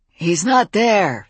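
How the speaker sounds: put-on slow, gruff old man voice. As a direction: growl it out like an old cowboy. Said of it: "said a gruff voice".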